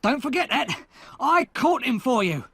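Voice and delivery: high, loud triumphant cry; cried out. Acted. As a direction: shout it at the soldiers. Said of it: "he cried".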